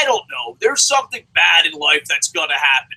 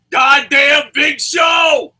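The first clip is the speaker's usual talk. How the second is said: loud, higher, slow drawn-out damnation; mock dramatic curse; 9 semitones higher, 7 dB louder, much slower than usual. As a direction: bellow it like a movie villain's downfall. Mock curse going to prison.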